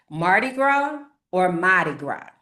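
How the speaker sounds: "Mardi Gras" as "grow", then "Mardi Gras" as "mah-tuh grah"; accent variants. Shown as a demonstration. Teacher contrasts "Mardi Gras" accents for viewers. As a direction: say "Mardi Gras" both ways, back to back. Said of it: "It depends on the accent".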